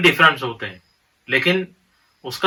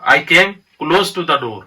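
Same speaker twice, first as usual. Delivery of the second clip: I came close to the door said very slowly; slow example sentence; much slower than usual. Shown as a demonstration. Teacher reads an example sentence slowly to students. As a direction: dictate the example slowly, word by word. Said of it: "When we say".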